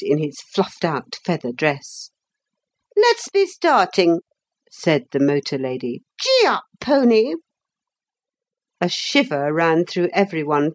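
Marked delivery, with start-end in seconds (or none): 2.9-4.2 high brisk lady's order; bossy lady. A narrator's reading. Motor lady hurrying the party off, high and bossy. 6.2-7.4 high-pitched riding command; bossy lady urging a mount. A narrator's reading. Motor lady ordering the hippogriff off, high command.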